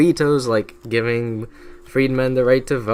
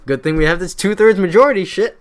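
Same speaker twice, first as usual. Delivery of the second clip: mock-smug musing that breaks into a laugh; smug Congress; 4 semitones higher, 4 dB louder than usual. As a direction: play Congress scheming, then cackle at the end. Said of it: "And then Congress was like".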